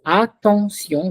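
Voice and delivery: attention drawn out with a clear open "a"; distinct pronunciation. Shown as a demonstration. Teacher modelling "attention" for students, very distinctly. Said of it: "very distinctly".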